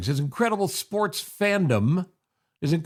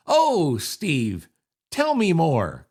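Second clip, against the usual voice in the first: sarcastic; much slower than usual. Shown as a demonstration. Host repeating the contest phrase for listeners, hammed-up sarcasm. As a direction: lay the sarcasm on thick. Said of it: "let's do the sarcasm".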